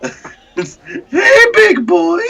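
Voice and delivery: put-on high, flirty Russian accent. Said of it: "whole Russian accent and everything".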